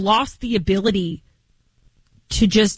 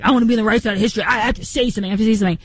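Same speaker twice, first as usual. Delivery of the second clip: mocking quote; much faster than usual. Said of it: "It's like".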